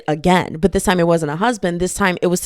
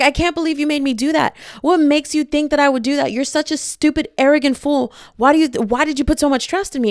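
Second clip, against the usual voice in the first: indignant heroine; 6 semitones higher than usual. Retold or imitated. Voicing the heroine's angry rant.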